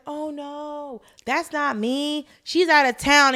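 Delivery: lightly put-on innocent voice; mild imitation of someone faking another identity; disguised voice. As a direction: play dumb in a slightly altered voice. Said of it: "she changes her whole voice".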